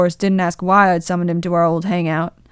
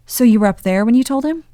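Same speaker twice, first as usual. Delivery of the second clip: Charlie's voice; 4 semitones higher, 5 dB louder, faster than usual. Acted. Charlie's voice asking Dean.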